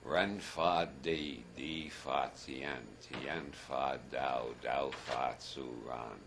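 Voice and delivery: slow, measured Chinese recitation; Tao Te Ching recitation. Shown as a demonstration. Speaker giving the audience some Tao Te Ching, slow recitation. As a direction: intone each short line slowly and deliberately. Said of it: "give you a bit of the Tao Te Ching".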